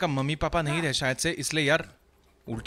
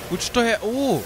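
high, loud burst of surprise; startled alert; 9 semitones higher, 5 dB louder, slower than usual. Real, not acted. Gamer spots something ahead, startled alert. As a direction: pitch jumps up, louder, on spotting something.

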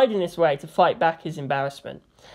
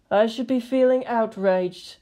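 miffed; 4 semitones higher than usual. A narrator's reading.

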